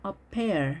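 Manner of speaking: "pear" with a short "pair" vowel; short diphthong. Shown as a demonstration. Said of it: "짧게 발음을 했죠". (pear의 이중 모음을 짧게)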